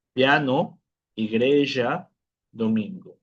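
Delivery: piano, igreja, domingo as separate model words with a pure I; Spanish-like I. Shown as a demonstration. Teacher repeating examples for students, Spanish-like I in piano, igreja, domingo. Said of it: "El mismo sonido que hacemos en español".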